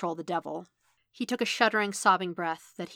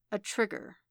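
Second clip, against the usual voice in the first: softening; 2 semitones higher, 3 dB quieter than usual. Acted. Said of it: "Stick contemplated, softening slightly".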